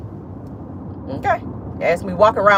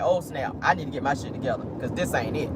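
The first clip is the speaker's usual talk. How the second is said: realizing son; 6 semitones lower, 9 dB quieter than usual. Retold or imitated. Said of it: "he gonna have to be like".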